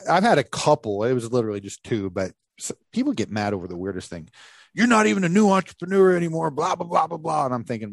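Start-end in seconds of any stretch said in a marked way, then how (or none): 4.7-7.4 high, mocking whiny voice; mocking critic. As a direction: mimic a snide critic. Mocking critics of podcast name.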